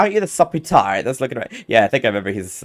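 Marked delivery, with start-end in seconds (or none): 0.0-1.5 loud, high mimicked taunt; ruder fairy. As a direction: imitate a rude fairy, pitched up and loud. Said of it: "a bit of a ruder one".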